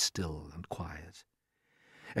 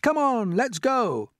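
high, loud urging; eager chorus; 13 semitones higher, 4 dB louder, slower than usual. A narrator's reading. Everyone keen to set off, high excited urging. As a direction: call them onward. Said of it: "they chorused".

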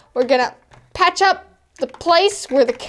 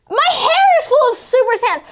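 high laughing shout; laughing complaint; 8 semitones higher than usual. Acted. Repeats hair complaint, laughing.

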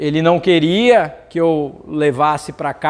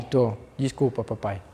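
filho pequeno pedindo desculpa; 8 semitones lower, 10 dB quieter than usual. Retold or imitated.

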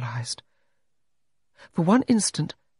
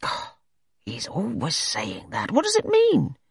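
lightly voiced gruff bullying doctor; a hint of a bullying English doctor; 6 semitones higher than usual. A narrator's reading. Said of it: "in that bullying manner".

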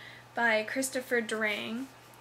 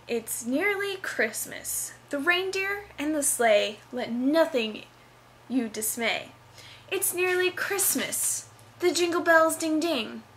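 spoken song lyrics declaimed with big theatrical swoops; dramatic reading; 3 semitones higher than usual. Shown as a demonstration. College student reading her play's song for YouTube, hammed-up dramatic reading. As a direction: recite the musical number like a hammy stage actor. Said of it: "a dramatic reading".

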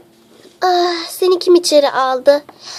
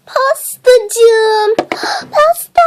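wailing over a dropped cake; tearful lament; much slower than usual. Acted. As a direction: gasp and whimper, pitch climbing at the end.

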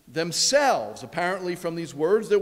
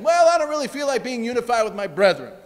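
mock reluctant excuse; 4 semitones higher, 5 dB louder, faster than usual. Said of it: "not some take it or leave it suggestion".

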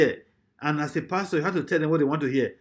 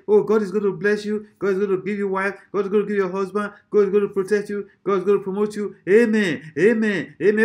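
rattled-off imitation of feel-good prayers; mock prayer building to raised amens; mock blessing prayer; 3 semitones higher, 3 dB louder than usual. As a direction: parody a preacher piling up blessings. Parodies crowd-pleasing blessing prayers.

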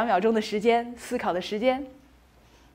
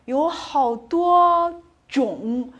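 drawn-out emphasis; 3 semitones higher, 4 dB louder, much slower than usual. Shown as a demonstration. Emphasising many kinds in picture.

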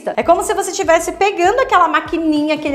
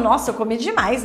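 too full, mild; 6 semitones lower, 5 dB quieter than usual. Retold or imitated. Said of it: "Você dá uma resposta assim".

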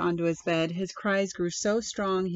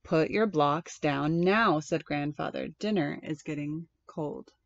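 patient grandfather; 3 semitones lower than usual. Acted. Grandfather insisting, boy keeps playing.

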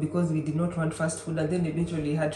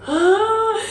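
high, loud surprised "Ah"; high, loud "Ah" of surprise at meeting a fellow Kenyan; 7 dB louder than usual. Retold or imitated. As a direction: let out a sharp, amazed "Ah". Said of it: "we were like".

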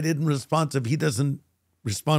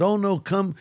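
eager insistent invitation; 6 semitones higher than usual. Retold or imitated. Dad insisting he come stay.

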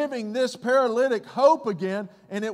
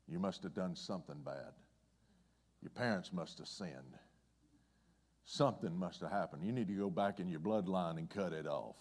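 much softer and lower, an accusing murmur; judging carnal mind; 13 semitones lower, 14 dB quieter than usual. Acted. The carnal mind judging the twisted man, low quiet accusing. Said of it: "the old carnal mind ... judging him".

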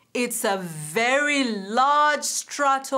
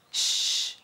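shushing. Acted. Hushing near the gorillas.

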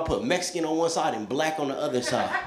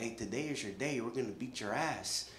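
low threat; 7 semitones lower, 15 dB quieter than usual. Retold or imitated. Thirty guys threatening him.

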